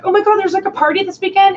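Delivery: put-on ditzy girl voice. Mimicking the ditzy blonde classmate.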